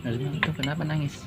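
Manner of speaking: softly imitating a friend's put-on concern; feigned sympathy. Retelling how the thieving friend came over to console him, feigned sympathy. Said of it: "Pura-pura simpati gitu".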